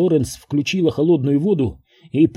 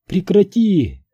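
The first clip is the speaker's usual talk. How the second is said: higher, slow desperate stop; pleading cry; 5 semitones higher, 3 dB louder, slower than usual. A narrator's reading. Florence crying at Daniel to stop. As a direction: cry out to make him stop.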